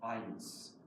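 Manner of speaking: measured German poetry recital, slow on key lines; slow reading of a German poem. Acted. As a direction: read it like your own poem at a reading. Poet reads own German poem.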